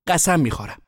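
high, loud pleading vow; pleading oath. A narrator's reading. Boy made to swear by sister, pleading oath.

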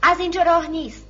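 loud, high warning; shouted challenge. A narrator's reading. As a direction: call out to block the way. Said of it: "صدایی بر وی بانگ زد".

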